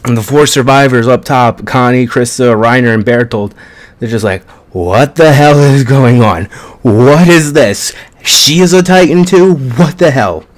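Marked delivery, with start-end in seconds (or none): 4.7-10.4 shocked disbelief. Retold or imitated. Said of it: "that's more so Connie and Krista's reaction".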